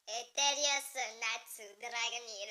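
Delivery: slow, clumsy Japanese accent on the name; awkward Japanese accent, half laughing; bad Japanese accent. Shown as a demonstration. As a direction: try a Japanese accent and miss. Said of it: "Mon accent est complètement dégueulasse".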